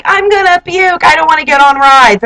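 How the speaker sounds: high-pitched mock whine; imitated party girl. Roommates protesting about the rides, imitated party-girl whine. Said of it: "making noises and dancing and are like".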